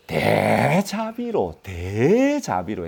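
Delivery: slow, flattering plea with 대 stretched; butter up the judge, drawing out 대자비로; ingratiating drawn-out appeal. Acted. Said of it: "미리 아부하는 게".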